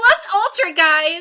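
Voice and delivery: exaggerated peppy mocking voice. Shouting a catchphrase to the guys: pepped-up voice, sounds mocking. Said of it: "just pep it up".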